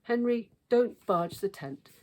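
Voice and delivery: high, loud warning yell. A narrator's reading. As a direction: shout at the boy to stop. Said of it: "yelled Dad".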